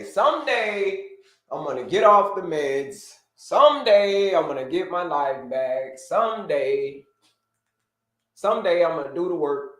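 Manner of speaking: slow, drawn-out wishful musing; dreamy someday. Retold or imitated. Mocking people who never start, slow and dreamy. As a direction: stretch out each someday like a daydream.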